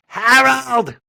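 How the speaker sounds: mother's South Boston call of Harold, loud; drawn-out Boston "Harold" in mock motherly yell; mother's accented Harold. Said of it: "which his mother pronounced".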